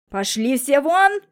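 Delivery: loud slow roar to get out; furious father yelling everyone out. A narrator's reading. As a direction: bellow them out of the room. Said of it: "заорал Мелехин".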